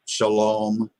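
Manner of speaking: Shalom said sha-LOM, weight on the second half; stress on second syllable. Shown as a demonstration. Teacher giving another example, Shalom stressed on the last syllable. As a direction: put the accent on the end of Shalom. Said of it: "is another good example".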